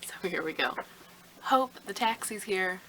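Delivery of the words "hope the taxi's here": raised, higher call up the stairs, drawn out; shouting upstairs. Acted. Mother calling her daughter down to the taxi, raised call. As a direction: call up to your daughter that the taxi has come. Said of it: "Meredith shouted".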